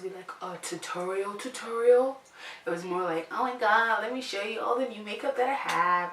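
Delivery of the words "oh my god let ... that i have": light put-on Canadian accent, quick; chirpy Canadian accent, a bit fast; mild Canadian accent, mock gushing. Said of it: "such a Canadian accent".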